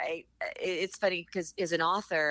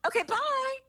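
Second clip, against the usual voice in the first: offhand relative. Retold or imitated. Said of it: "they're like".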